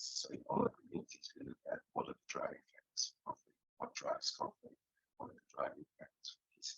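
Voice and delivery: choppy, breaking-up call audio; cutting-out robotic connection. Real, not acted. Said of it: "you sounds like a robot".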